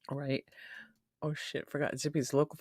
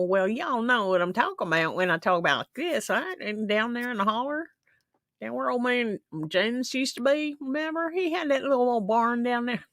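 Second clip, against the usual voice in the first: put-on higher Southern country accent; Southern drawl; 9 semitones higher, 4 dB louder than usual. Streamer slipping into a Southern accent for fun. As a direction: tell it like an old holler neighbour. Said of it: "step aside of myself and go".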